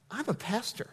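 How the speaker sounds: soft, quiet "I'm a pastor" with a laugh; sheepish laughing. Retold or imitated. Pastor telling a cursing stranger his job, laughing softly. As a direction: admit it with an embarrassed chuckle.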